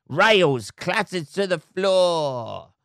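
very slow, drawn-out movie-trailer voice; milk every word like an epic trailer; hammed-up dramatic reading. Shown as a demonstration. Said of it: "Dramatise it up".

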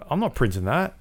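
high, dismissive mock refusal; scoffing refusal. Publisher refusing in retold scene.

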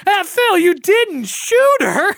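the penny drops, drawn out; dismayed realization. Retold or imitated. Eddie realizing Phil has a gun, slow and dismayed.

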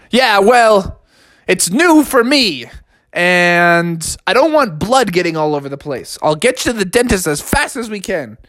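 high, blustering father; dad insisting the old bus counts as new; defensive dad. Acted. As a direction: brush off the remark.

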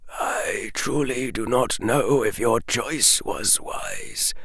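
quiet, sinking to a breath on wise; fading doubt. A narrator's reading. Dumbledore confessing doubt to Harry, fading to nothing. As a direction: let the sentence die away.

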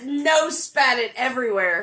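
laughing while telling; giggling through the words. Real, not acted. Laughing at spit take.

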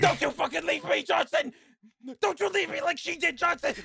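high, strained anime shout; mock dramatic yell. A friend mock-yelling like the anime character. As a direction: wail the name like a dying friend.

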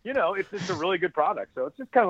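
speech broken by small burps; burping after fizzy drink. Real, not acted. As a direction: talk through little burps. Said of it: "I keep burping".

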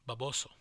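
Baboso in Spanish, ba-BO-so, rising end; Spanish slang. Shown as a demonstration. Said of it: "I guess you would say slang".

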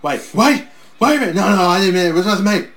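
hammed-up wrestler backing off; mock pleading. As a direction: plead like a cornered heel. Voicing Flair begging off.

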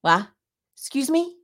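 high-pitched stunned question; retold disbelief. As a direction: act out being completely taken aback. Stunned reply to friend's revelation.

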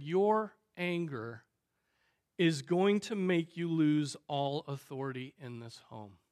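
measured, self-controlled warning; calm. Retold or imitated. Wife warning her angry husband about his authority, calmly. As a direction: state it evenly, with a pause after anger. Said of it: "she said calmly".

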